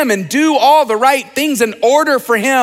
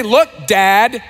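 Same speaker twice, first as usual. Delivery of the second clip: polite address. Shown as a demonstration. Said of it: "He doesn't say".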